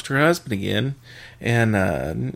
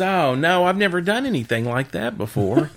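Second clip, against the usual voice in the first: higher-pitched wife's protest; mock protest; 5 semitones higher than usual. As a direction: play the wife's mild, higher-voiced objection. Wife protests in joke.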